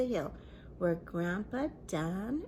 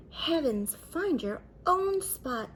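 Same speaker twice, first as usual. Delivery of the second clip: louder, higher indignant baker; annoyed baker; 6 semitones higher, 5 dB louder than usual. A narrator's reading. Baker tells the barber to find his own spot, indignant. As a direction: shoo the barber away. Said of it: "said the baker".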